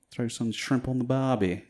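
half-hearted Australian attempt; badly faked Australian accent. Shown as a demonstration. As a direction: attempt a mild Aussie twang. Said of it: "That was pretty bad".

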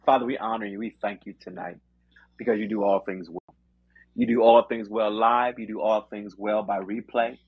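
steady earnest prayer voice. Acted. Closing prayer.

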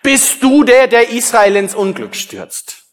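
mock-dramatic accusing shout; called out accusingly. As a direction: fling the question at him across the distance. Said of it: "rief er ihm zu".

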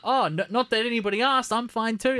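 lightly voiced fussy robot, mock hurt; quoting the film's C-3PO line in his fussy voice; C-3PO impression. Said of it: "He's like".

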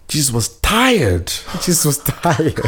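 mock deadpan. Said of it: "He was like".

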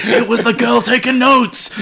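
high, loud mock reveal through laughter; mock accusing outburst. Friend springs the twist about the note-taker, mock accusing outburst. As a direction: cry it out as a hammed-up accusation.

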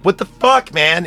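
put-on startled girl yelling at him; shocked outburst. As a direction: squeal it in disbelief. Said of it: "and she's like".

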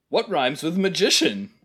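toned-down imitation of an obnoxious rhymer; Tom Tit Tot. Co-host quoting the movie gag, a mild character imitation. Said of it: "you're being too generous imitating his voice".

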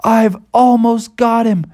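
high, slow cartoon strain; eager Bubby. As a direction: stretch it out mid-chase. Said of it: "Bubby was like".

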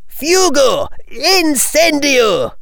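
high, slow spell cry; spell shout. Acted. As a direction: cast the spell aloud. Spells cast in a fight.

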